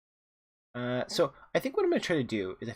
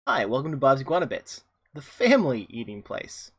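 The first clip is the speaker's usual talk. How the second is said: cheery greeter; 2 semitones higher, 7 dB louder than usual. Acted. Reading NPC greeter line.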